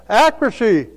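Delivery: normal talking voice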